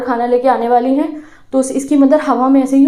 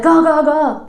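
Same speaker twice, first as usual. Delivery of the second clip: mock gull cry; 4 semitones higher, much slower than usual. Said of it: "अपनी mother को आवाज़ लगाता है".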